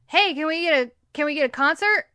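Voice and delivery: loud, eager call from the crowd; yelling out. Retold or imitated. A passenger calling to the captain, loud and eager. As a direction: shout it across the gate. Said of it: "somebody yells out".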